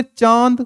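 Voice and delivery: चांद with a nasalized long aa; long nasal aa in चांद; chandrabindu demo. Shown as a demonstration. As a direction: let चांद hum through the vowel. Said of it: "जबकि अगर हम बोले".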